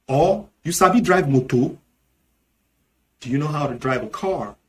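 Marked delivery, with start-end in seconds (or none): 0.6-1.8 Nigerian Pidgin. Shown as a demonstration. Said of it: "in Nigerian Pidgin English".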